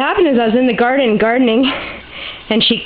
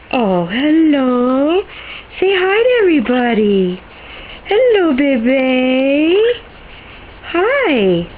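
pet talk; 3 semitones higher, slower than usual. Real, not acted. High pet talk to bird.

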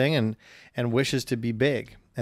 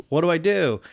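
lightly voiced kid asking for help, pitched up; mock-helpless, higher and louder question; worried kid; 5 semitones higher, 5 dB louder than usual. Host retells the boy holding the ball, mildly panicked. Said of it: "and he says".

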